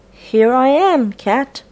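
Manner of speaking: mouse voice. Acted. Mouse character voiced in story.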